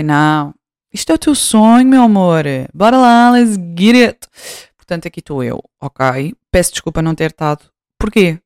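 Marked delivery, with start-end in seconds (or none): 0.0-4.3 self pep talk. Retold or imitated. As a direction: hype yourself up. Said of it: "mas pensei".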